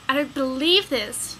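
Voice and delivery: strangled gasp. Acted. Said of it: "you gasp in a strangled voice".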